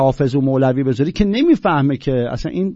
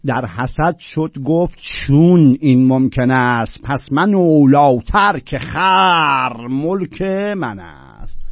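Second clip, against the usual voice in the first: loud, drawn-out verse declamation; measured, emphatic classical Persian recital; poetry recitation; 4 dB louder, much slower than usual. Acted. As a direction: declaim the couplet slowly, stretching the key words.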